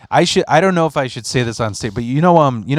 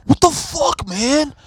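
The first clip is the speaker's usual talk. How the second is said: much higher, jolted voice; mock groggy friend; 14 semitones higher, slower than usual. Friend slapped awake in the car, much higher and jolted. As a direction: woken up with a start. James woken up.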